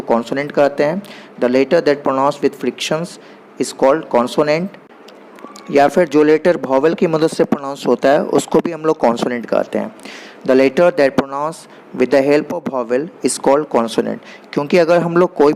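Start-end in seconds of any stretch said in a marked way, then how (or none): 1.4-4.7 English definition read out very slowly, word by word; slow dictation. Shown as a demonstration. Teacher dictating a definition to the class, very slow and deliberate. 10.5-14.2 English definition read out very slowly, word by word; slow dictation. Shown as a demonstration. Teacher dictating a definition to the class, very slow and deliberate.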